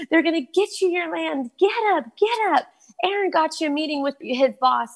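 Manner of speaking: high, urgent mock shouting to wake her friend; retold excited wake-up yelling. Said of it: "she's crying over me and screaming over me".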